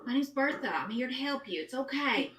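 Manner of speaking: put-on calm the scared child down; reassuring. Bertha holding the crying halfling boy, soothing him gently. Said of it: "just say".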